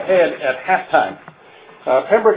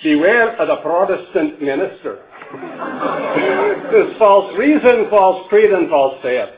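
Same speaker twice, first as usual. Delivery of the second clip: mock-solemn teasing rhyme in a local Ottawa Valley accent. Teammates teasing the lone Protestant at halftime, Ottawa Valley accent. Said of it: "in the accents of our, of our tribe".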